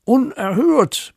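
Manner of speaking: high-pitched, indignant outburst; outraged neighbour bellow. Acted. Neighbour protests about dog mess, hammed-up outraged cry. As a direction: explode in theatrical outrage. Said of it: "brüllt Nachbar Schneten".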